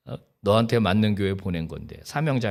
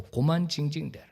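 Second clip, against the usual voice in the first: God scolding. Retold or imitated. God rebuking the whining pastor, building exasperated scold. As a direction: scold him like a weary father, rising to exasperation. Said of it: "정말로 그렇게 제가 느꼈어요".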